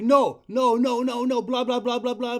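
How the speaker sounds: mock tantrum over the caller; mocking a whiny kid. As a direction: drown out the caller like a bratty kid. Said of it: "the kid's, like, screaming and yelling".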